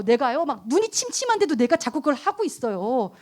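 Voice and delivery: ordinary talk, nothing marked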